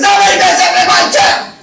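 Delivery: fast, furious loud roar; explosive high angry shout; grizzly Papa Bear. Acted. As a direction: bellow it as a bear getting ticked off. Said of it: "Papa Bear's really getting grizzly".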